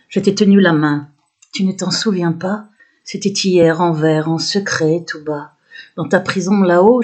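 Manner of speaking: measured verse delivery, a pause after each line; poem recitation. Acted. Poet reciting her own poem to viewers, measured recitation.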